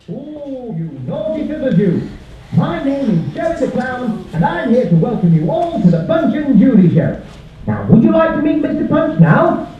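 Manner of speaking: cheery clown host; playful children's clown. Acted. Puppeteer as Joey the Clown.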